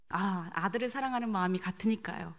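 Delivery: normal talking voice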